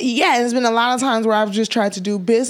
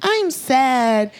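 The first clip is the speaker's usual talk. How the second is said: lightly hammed-up self-pity; playful imitation of someone moping; mock sad; 3 semitones higher than usual. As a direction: put on a mild poor-me plea. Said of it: "emotional is not, like, just".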